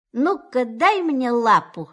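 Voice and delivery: stern. Acted. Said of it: "строго сказал кролик".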